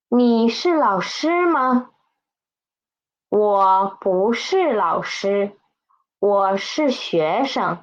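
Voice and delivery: measured Mandarin sentences for repeating; read-after-me model. Shown as a demonstration. Teacher leads students through the text, read-after-me model. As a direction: say each sentence distinctly, leaving room to echo. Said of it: "Read after me".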